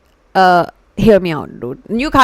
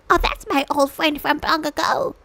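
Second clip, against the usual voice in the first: lightly voiced grandpa, higher-pitched; 6 semitones higher, 4 dB quieter than usual. Streamer imitating grandpa about his old friend, playful grandpa voice. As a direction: put on a hint of a grandpa recognising an old pal. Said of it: "Grandpa be like".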